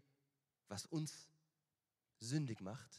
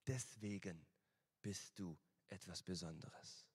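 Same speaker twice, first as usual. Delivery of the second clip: tender father; 2 semitones lower than usual. Retold or imitated. Preacher voicing God as a gentle father to his child. Father's words voiced in sermon.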